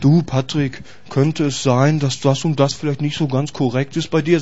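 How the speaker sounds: low, soft, careful delivery; mild tactful criticism. Acted. Someone cautiously correcting Patrick, mild and tactful. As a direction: tiptoe gently round the criticism.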